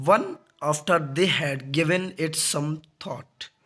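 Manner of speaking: very slow, word-by-word reading; definition read aloud. Acted. Teacher reading the polite sarcasm definition, slow dictation. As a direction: dictate it slowly in short phrases.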